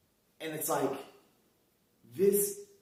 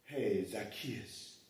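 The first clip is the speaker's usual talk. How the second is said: low, soft, slow mock greeting; hushed slowed-down hello to the tree; understated Jesus greeting; 5 semitones lower, 9 dB quieter, much slower than usual. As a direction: try it quietly instead. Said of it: "Nah, no, no, it wasn't like that".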